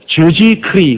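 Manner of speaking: 저지 크리 as French Jésus-Christ; French pronunciation. Shown as a demonstration. Preacher showing how the French say Jesus Christ, foreign pronunciation. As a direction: sound out 저지 크리 the French way. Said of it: "프랑스 사람들은".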